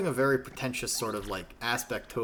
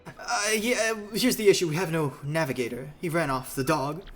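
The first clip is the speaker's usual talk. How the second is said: pitched-up, animated character voice; theatrical captain; 6 semitones higher than usual. Acted. Captain explaining the missing navigator, theatrical. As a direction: explain the trouble with theatrical flourish.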